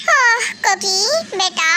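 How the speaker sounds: mock plea. Dad pleading with daughter.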